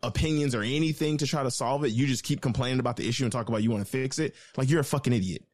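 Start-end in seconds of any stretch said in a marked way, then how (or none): 4.7-5.4 fed-up outburst. Real, not acted. Venting about the caller.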